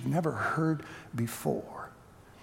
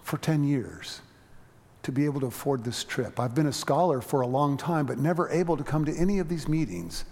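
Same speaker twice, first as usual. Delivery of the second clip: sweet calm voice. Retold or imitated. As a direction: speak humbly and tenderly, unhurried. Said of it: "she had this sweet, calm voice".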